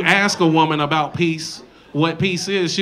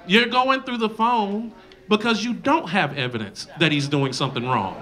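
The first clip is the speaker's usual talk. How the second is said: ordinary delivery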